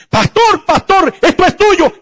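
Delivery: calling out urgently. Retold or imitated. Young man running up, calling.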